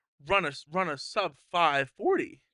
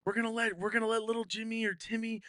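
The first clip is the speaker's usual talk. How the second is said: higher-pitched acted hype; hyped-up announcing; 8 semitones higher than usual. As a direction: imitate a team hyping up a kid's big play. Voices team hyping sick kid's run.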